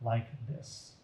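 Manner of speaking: gentle read-aloud storyteller voice; story narration. Acted. Reading an Easter story to listeners, storyteller voice. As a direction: tell it like reading to children at bedtime.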